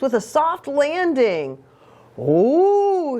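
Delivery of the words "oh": sighed. A narrator's reading. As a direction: breathe out the oh as a sigh. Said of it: "sighed, sighed Don Diego".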